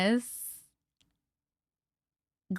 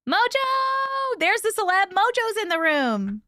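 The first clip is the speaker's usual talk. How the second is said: high, delighted welcome; excited squeal; 11 semitones higher, 3 dB louder, slower than usual. Real, not acted. Host spots a famous viewer in chat, delighted squeal. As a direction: greet the star like a fan.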